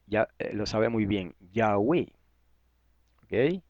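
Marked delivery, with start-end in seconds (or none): 1.5-2.1 Yahweh with stress on the last syllable, ya-WEH; accent on E. Shown as a demonstration. Confirming a listener's answer, Yahweh said as ya-WEH. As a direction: land on the final E of Yahweh. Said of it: "Con acento en la E".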